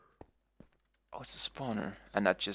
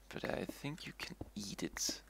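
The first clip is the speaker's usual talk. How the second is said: whispering; 8 dB quieter than usual. Real, not acted. Quiet aside to himself.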